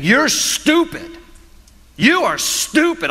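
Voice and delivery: put-on high whiny child yelling at mom; mock bratty kid yell. Preacher imitating a bratty child yelling at his mom, high and whiny. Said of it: "just yelling at his mom".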